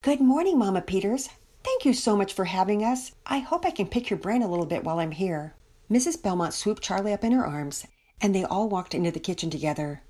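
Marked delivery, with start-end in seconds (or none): 0.0-5.6 lightly voiced guest, lifted greeting settling down; grateful visiting mother.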